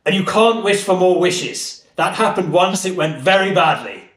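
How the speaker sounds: a lightly voiced booming English genie granting a wish. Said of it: "and he goes".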